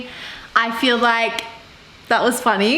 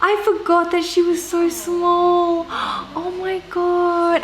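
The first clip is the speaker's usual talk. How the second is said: slow, amazed, higher gasp; gasping surprise; 5 semitones higher, slower than usual. Real, not acted. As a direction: gasp in awe. Gasping at puppy footage.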